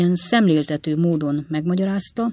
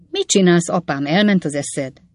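cry out; 5 dB louder than usual. Acted. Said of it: "kiáltott fel Sam".

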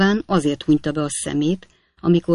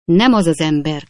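exclaiming; 5 dB louder than usual. Acted. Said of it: "kiáltott fel".

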